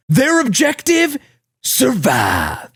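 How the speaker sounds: high projected line in mock Japanese accent; badly faked Japanese accent. Re-recording trailer audio, struggling mock Japanese accent. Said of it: "oh, I can't do the accent".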